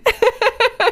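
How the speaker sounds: high bursting laughter; loud laugh. Real, not acted. Laughs at office joke. (lautes Lachen)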